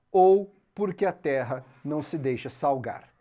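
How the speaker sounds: sermon read aloud. Acted. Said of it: "trecho de um sermão".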